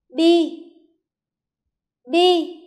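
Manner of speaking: "Bi" said high and loud, crisp; model pronunciation. Shown as a demonstration. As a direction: sound out "Bi" for children. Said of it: "Lắng nghe cô phát âm". (phát âm mẫu "Bi" cao, to)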